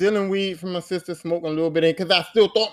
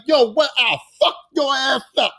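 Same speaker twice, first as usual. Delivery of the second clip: put-on rapper impression; 4 semitones higher than usual. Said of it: "Old Dirty Bastard was so funny 'cause he was like".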